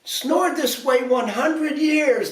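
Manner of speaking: high, slow whimpering fairy voice; a high, slow, teary fairy whimper. A narrator's reading. Fairies to the prince, high slow whimpering. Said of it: "they whimpered".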